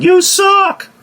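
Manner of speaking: very high mock yell; imitated heckler yell. Audience member to grieving wrestler, imitated yelled heckle. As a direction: heckle like one guy in the audience. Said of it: "that one guy in the audience yelling".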